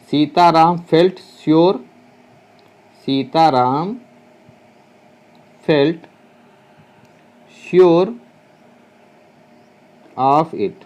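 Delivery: long pause after each word; slow word-by-word dictation. Shown as a demonstration. Teacher dictating to students word by word, slowly. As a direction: spell it out at writing speed.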